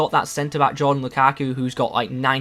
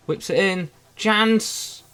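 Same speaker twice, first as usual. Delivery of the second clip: excited; 6 semitones higher, much slower than usual. Real, not acted. Live goal chance commentary.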